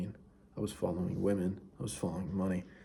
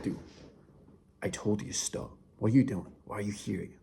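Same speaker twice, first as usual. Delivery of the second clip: angry confrontation. Retold or imitated. Confronting someone who ignored you, in mock anger. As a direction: scold them for not stopping. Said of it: "that was your anger, right?".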